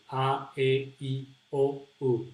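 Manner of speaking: A, E, I, O, U as separate Spanish vowels; A, E, I, O, U, each a pure Spanish vowel. Shown as a demonstration. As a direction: recite A, E, I, O, U evenly in Spanish. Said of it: "pronounce almost all vowels in the same way".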